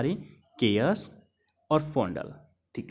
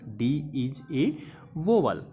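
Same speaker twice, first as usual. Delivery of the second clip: slow keyword; 2 semitones lower, slower than usual. Shown as a demonstration. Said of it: "ये हमारा keyword हो गया".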